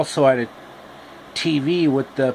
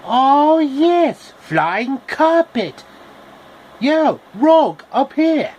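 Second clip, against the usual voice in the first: much higher, louder thrilled calling out; excited shout; 12 semitones higher, 5 dB louder, slower than usual. Acted. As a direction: yell up with delight from the carpet. Excited character shouting on carpet.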